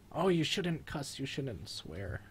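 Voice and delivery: high, slow goody-goody voice; mock scolding viewer. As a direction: imitate a prim little scold, drawn out high. Voices viewers scolding his swearing.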